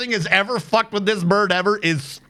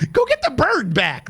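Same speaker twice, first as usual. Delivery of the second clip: laughing; 6 semitones higher than usual. Real, not acted. Laughing at own joke.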